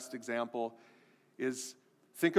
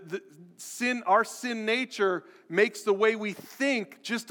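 rising, louder, higher pulpit build; preaching at full force; 5 semitones higher, 4 dB louder, slower than usual. Acted. Pastor pressing the congregation about sin, building preach. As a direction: drive it home harder with each line.

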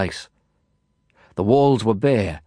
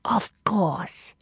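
imperious command; 6 semitones higher, slower than usual. Acted. Madame Zhou commanding.

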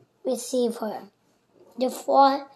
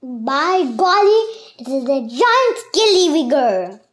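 mock alarm; 10 dB louder than usual. A narrator's reading.

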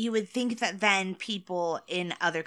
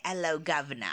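hammed-up cockney greeting; mock British accent. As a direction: put on a jokey British accent. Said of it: "we love to say".

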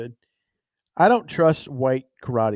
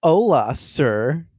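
mocked white customer; 4 semitones higher than usual. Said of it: "and they'll be like".

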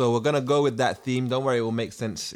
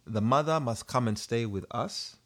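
put-on Ugandan accent. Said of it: "In the Ugandan accent, as requested".

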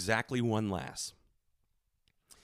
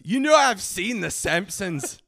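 louder, higher Scottish retort; imitated Scottish accent; 6 semitones higher, 6 dB louder, slower than usual. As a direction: call him out slowly in a mock Scottish accent. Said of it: "laughs and goes".

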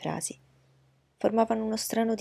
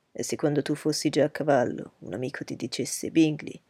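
lower, measured, coolly lecturing; reserved proud gentleman; 4 semitones lower than usual. Acted. Darcy coolly lecturing Bingley on his vanity, low and measured. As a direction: dissect his friend's words calmly from low down.

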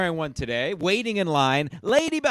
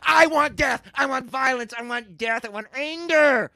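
villain monologue; 4 semitones higher than usual. Acted. Villainous chant of wants.

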